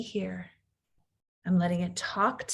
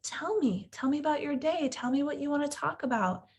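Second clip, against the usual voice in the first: gentle mom; 4 semitones higher than usual. Retold or imitated. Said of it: "turn toward them and say".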